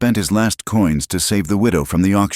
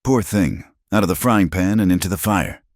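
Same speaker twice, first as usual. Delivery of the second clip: false sympathy; 4 semitones higher than usual. Acted. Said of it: "dripping with false sympathy".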